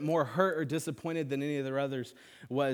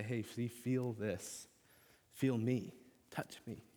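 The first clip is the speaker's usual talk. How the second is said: gentle hush; 5 dB quieter, slower than usual. Retold or imitated. Imagined Jesus embracing listeners.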